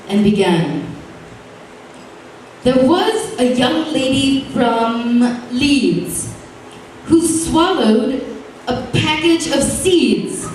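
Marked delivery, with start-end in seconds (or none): 2.6-10.5 slow, lilting limerick recital; sing-song verse read aloud; lightly performed poem; reciting a limerick. A narrator's reading. Poet reads his limerick.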